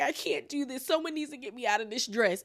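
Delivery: high, soft mock distress; upset castmate imitation. Host mimics castmate fleeing the dressing room, upset imitation.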